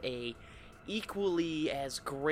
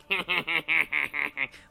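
Crypt Keeper laugh; 7 dB louder than usual. Shown as a demonstration. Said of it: "like the Crypt Keeper".

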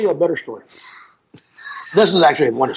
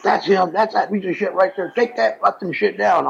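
mock outrage, pitched up; higher-pitched retold tirade, not shouted; retold angry cussing; 5 semitones higher than usual. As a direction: imitate an old man cussing someone out. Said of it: "this old guy cussing at me".

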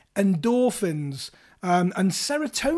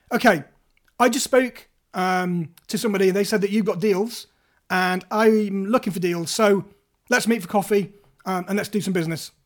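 direct assertive. Shown as a demonstration. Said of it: "directly assertive".

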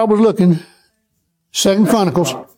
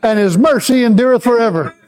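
call and response; 3 semitones higher than usual. Shown as a demonstration. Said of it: "Let's say it again".

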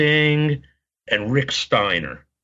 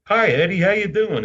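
high, chirpy retold hello; mock fan greeting; 9 semitones higher than usual. Fan greeting a wrestler in the bathroom, high-pitched retold greeting. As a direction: greet a wrestler in a raised, put-on voice. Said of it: "and I'm like".

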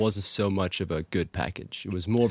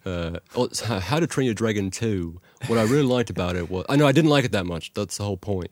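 put-on a hesitant Australian accent, half-held. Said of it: "Let me try mine in Australian accent".

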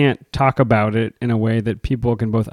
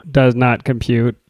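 monotone robot voice. Pretend. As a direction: say it like a computer. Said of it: "That was my robot voice".

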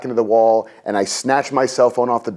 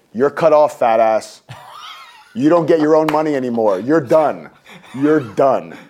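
mock bank telling him off; 3 semitones higher than usual. Bank cutting him off, insulting.

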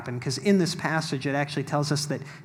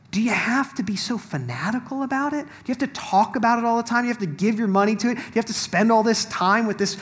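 mock pleading friend, higher, speeding up; imitating a well-meaning critic begging him to calm down; nagging naysayer; 7 semitones higher, 4 dB louder than usual. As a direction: needle him to tone it down. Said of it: "He's like".

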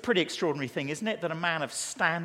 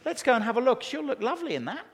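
higher-pitched, chummy tradesman patter; mock-soothing salesman of a carpenter; reassuring carpenter; 6 semitones higher than usual. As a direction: play a cheerily tactless carpenter. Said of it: "He can say".

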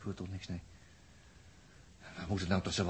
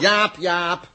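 calling out; 8 semitones higher, 10 dB louder than usual. Acted. Calling Jaap from a distance.

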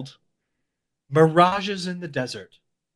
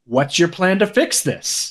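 disappointed dad tone. Retold or imitated. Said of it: "disappointed dad tone".

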